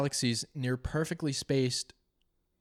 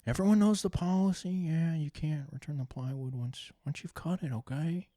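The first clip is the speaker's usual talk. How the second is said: Owen Wilson impression; 4 semitones higher than usual. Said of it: "the Owen Wilson one".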